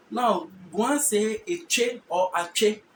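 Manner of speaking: Eche and Ache said slowly and clearly; slow teaching demo. Shown as a demonstration. Teacher to class, naming Guan words slowly. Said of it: "teacher demonstrates word forms".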